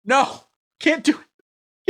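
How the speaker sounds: high, slow mock wail of defeat; mock anguish. Streamer giving up on the requested accent, hammed-up wail. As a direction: stretch it into a hammed-up moan, high. Whining he can't be Chinese.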